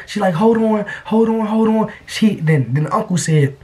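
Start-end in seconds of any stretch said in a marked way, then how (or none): 0.4-1.9 high hurried hold on; a higher voice, stalling for time. Retold or imitated. Girlfriend stalling her uncle at the door, high and hurried.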